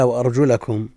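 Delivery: وأرجلكم with an a after the lam, "wa-arjulakum"; fatha reading. Shown as a demonstration. Teacher quotes the verse from the commentary, وأرجلكم with "la". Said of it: "بالنصب".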